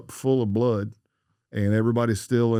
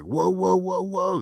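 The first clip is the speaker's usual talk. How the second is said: retold yell; 10 semitones higher, slower than usual. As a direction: stop him cold like an instructor. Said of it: "that's when I'm yelling".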